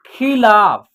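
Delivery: खिलाफ with a long, stressed final syllable; pronunciation demo. Shown as a demonstration. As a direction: sound out खिलाफ, stretching ला. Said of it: "क्या हो जाएगा?". (खिलाफ का खींचकर उच्चारण)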